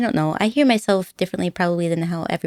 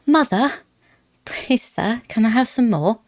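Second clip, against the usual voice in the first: put-on British accent; 3 semitones higher than usual. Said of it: "practicing my accents".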